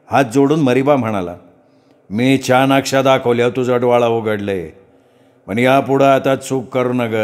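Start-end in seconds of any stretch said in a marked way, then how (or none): 2.1-7.1 slow, drawn-out trance speech; possessed priest. Acted. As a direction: speak slowly as the goddess in him. Possessed priest speaks as goddess. (घुमत बोलणारा भगत)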